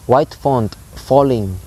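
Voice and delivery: slow "White font falling", every syllable stressed; "White font falling" drawn out in equal beats; spondaic reading. Shown as a demonstration. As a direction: weigh "White", "font" and both halves of "falling" evenly. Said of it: "two high stress syllables".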